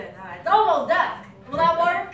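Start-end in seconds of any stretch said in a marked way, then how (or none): 0.4-1.2 Southern accent. Shown as a demonstration. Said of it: "the mom was American, uh, Southern even".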